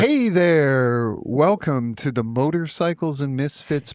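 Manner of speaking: a sleazy, lingering hello; pervy. Shown as a demonstration. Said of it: "do it a little less pervy".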